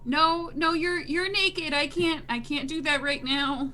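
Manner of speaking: flustered refusal. Acted. Refusing a naked bather's invitation, flustered.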